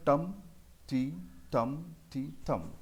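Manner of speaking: slow chant with each टम stressed over a milder टी; stressed and unstressed beats. Shown as a demonstration. Teacher showing the rhythmic pattern, stress on टम. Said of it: "टम को थोड़ा loudly बोलना है".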